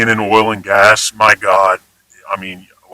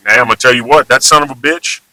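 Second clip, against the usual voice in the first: admiring example; faster than usual. Shown as a demonstration. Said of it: "positive context".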